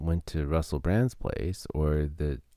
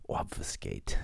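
Click and Clack impression; 11 semitones lower, 4 dB quieter, slower than usual. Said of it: "the way, uh, Click and Clack".

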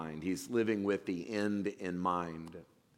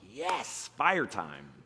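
pumped up; much slower than usual. Retold or imitated. Speaker recalls firewood arriving at his house, pumped. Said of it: "I was just pumped".

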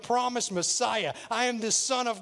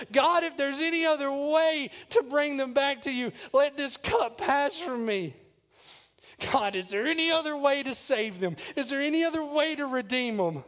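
crying out; 4 semitones higher than usual. Acted. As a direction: plead fervently with God. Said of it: "He cries out in the garden".

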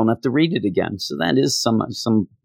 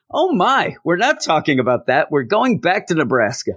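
excited; 5 semitones higher than usual. Retold or imitated. Mock excited inner voice.

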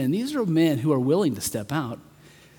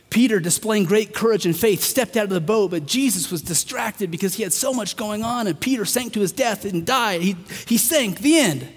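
mock alternate telling; 6 semitones higher, 4 dB louder than usual. Mock retelling of how story could read.

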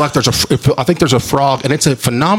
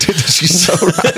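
higher, slow mock awe; mock realization; 6 semitones higher, slower than usual. Retelling therapist answer, mock-awed realization. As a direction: act out the sudden realization. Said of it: "and I was like".

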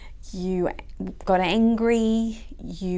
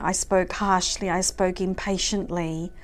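heartfelt prayer. Acted. Leads a prayer with music.

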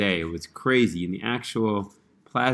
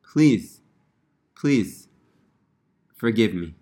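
broken pleading. Retold or imitated. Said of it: "And so broken, he comes before Hashem".

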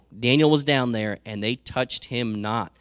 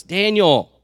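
higher, louder mournful call of a name; lamentable cry; 7 semitones higher, 9 dB louder than usual. Retold or imitated. King calling into the lions' den, lamenting. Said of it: "he said in a lamentable voice".

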